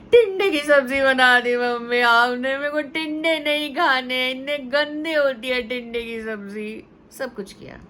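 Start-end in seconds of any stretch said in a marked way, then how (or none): 0.1-6.8 put-on loud, whiny little girl complaining; child's tantrum. Daughter on the floor complaining to mother, loud whine. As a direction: wail it like a kid lying on the floor.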